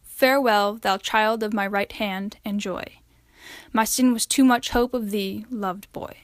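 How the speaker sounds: slow, solemn poem reading, lines falling softly; poem recitation. Acted. Student reading Ben Jonson's elegy to class, solemn recitation. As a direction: read the elegy with quiet grief.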